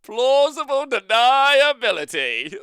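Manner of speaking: high, slow puppet voice; Shilly voice. Acted. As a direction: drawl it out like a squeaky puppet. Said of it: "I didn't say it. Shilly did".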